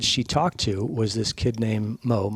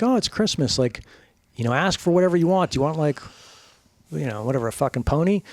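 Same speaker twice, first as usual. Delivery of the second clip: cheery parent; 4 semitones higher than usual. Retold or imitated. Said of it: "He's like".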